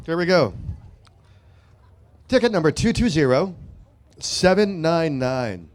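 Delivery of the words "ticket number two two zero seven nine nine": slow number call. Shown as a demonstration. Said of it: "repeats number slowly".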